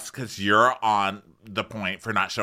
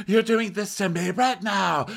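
mock indignant; 12 semitones higher than usual. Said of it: "She goes".

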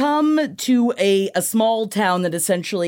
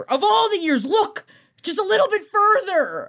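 laughing exasperation; 12 semitones higher than usual. Real, not acted.

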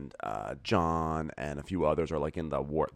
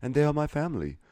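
high, rising earnest plea; mock earnest lover; 9 semitones higher, 4 dB louder than usual. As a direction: build up, pleading higher and higher. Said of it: "So basically he's like".

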